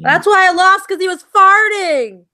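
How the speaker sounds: high, loud whiny complaint; mock sore-loser whine. Mock whining complaint quote.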